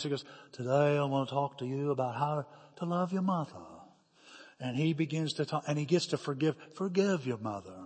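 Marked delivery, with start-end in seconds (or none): 0.5-3.6 put-on Southern baritone, Georgia style; Georgian Southern baritone. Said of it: "talking in that Georgian, I love that Southern accent. He's got baritone voice". 6.7-7.9 lower, imitated Southern preacher; a touch of Georgia baritone; Georgian Southern accent. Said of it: "talking in that Georgian, I love that Southern accent".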